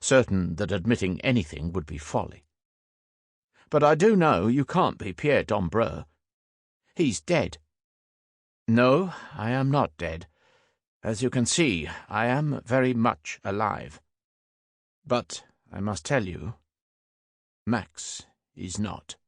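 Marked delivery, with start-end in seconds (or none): 3.7-7.6 higher-pitched, firm contradiction; insistent disbelief. A narrator's reading. Sam disputing the stranger's identity, higher insistent voice. 8.7-19.1 lightly French, pausing before the final blow; light French accent. A narrator's reading. Frenchman breaking bad news to Sam, light French accent. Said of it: "there was a French accent bubbling beneath it".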